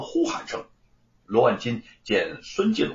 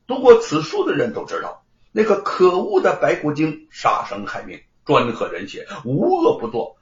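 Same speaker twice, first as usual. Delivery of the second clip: higher, louder courtroom argument; defendant pressing his case; 4 semitones higher, 5 dB louder than usual. Acted. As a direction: argue it out emphatically, lightly in character. (略带表演地高声辩驳)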